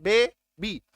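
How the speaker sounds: "बेबी" divided as बे, बी; "बेबी" ending in a clear long ee; two clear syllables. Shown as a demonstration. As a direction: sound out both beats of "बेबी". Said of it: "दो syllable हो गया".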